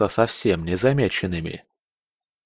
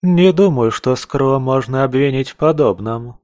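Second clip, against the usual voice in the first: higher, louder woman's voice; objecting sharply, higher and louder; female voice; 3 semitones higher, 4 dB louder than usual. Acted. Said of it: "Самый первый голос, женский".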